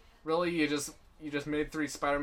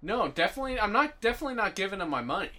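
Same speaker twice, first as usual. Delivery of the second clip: higher, faster insistent denial; emphatic protest; 4 semitones higher, faster than usual. Real, not acted. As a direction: insist hard, quick. Protesting boycott.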